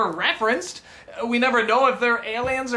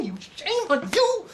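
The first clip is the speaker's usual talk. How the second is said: higher, scolding reproach; mock scolding; 9 semitones higher than usual. Scolding the makers of Garbage Pail Kids, high and stern. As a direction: wag a finger at them with your voice.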